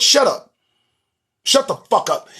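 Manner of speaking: annoyed. Real, not acted. Ranting at a news headline.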